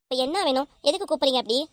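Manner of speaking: touch of irritated impatience; mildly angry. Acted. Worried wife snapping lightly at husband who calls her, irritated. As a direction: answer the call with mild annoyance. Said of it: "ஏன் இப்படி கோவப்படுற?".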